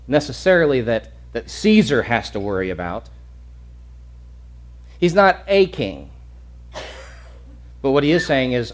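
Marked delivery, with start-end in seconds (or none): 5.0-6.1 "a" slowed and said as "ay" in "not a king"; stress on A. Shown as a demonstration. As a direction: pick out "a" as a full, stressed "ay". Contrasts "a king" with "the king.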